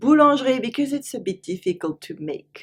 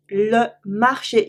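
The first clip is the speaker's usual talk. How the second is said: "le marché" stretched out slowly; slow repeat; slower than usual. Shown as a demonstration. Teacher slowly repeating "le marché" for learners. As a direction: drag out "le marché" syllable by syllable.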